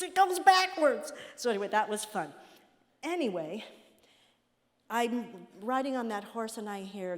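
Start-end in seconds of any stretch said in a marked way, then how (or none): 0.0-1.1 loud slow shout. Retold or imitated. Husband shouting about his horse.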